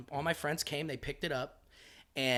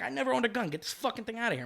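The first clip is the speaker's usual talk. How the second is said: loud protest; 10 semitones higher, 5 dB louder, faster than usual. Retold or imitated. Protesting to police.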